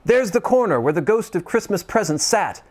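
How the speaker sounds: high, fast, giddy calling out; giddy Scrooge. Acted. Scrooge shouting merry wishes to the whole world, giddy. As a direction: bubble over like a schoolboy. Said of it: "cried Scrooge".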